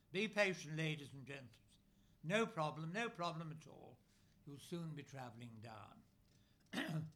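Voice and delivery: a lightly voiced North Country fairground announcer; booming North Country reassurance over a tannoy, understated; North Country accent. Operator calming riders over the loudspeaker, mild North Country accent. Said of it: "Again the North Country voice reverberated".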